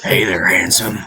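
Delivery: sultry come-on; flirty lady voice. Acted. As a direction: purr it like a barmaid.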